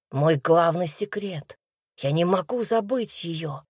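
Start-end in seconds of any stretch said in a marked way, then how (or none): none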